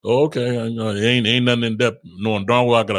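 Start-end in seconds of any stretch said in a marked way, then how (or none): 0.0-0.5 a curt, uninterested "Oh, okay."; dismissive oh okay. Shown as a demonstration. Shutting down a disrespectful person, a curt brush-off. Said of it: "the simple".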